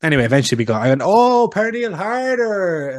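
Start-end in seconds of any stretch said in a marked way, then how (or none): 1.0-3.0 high, drawn-out mock "oh, I get it"; dawning realization. Card seller finally understands what the Danish dad wants, dawning realization. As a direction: stretch out an exaggerated moment of finally understanding. Acting out sudden realization of the name.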